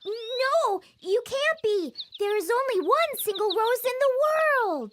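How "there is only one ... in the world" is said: mocking laugh. Roses mock the prince.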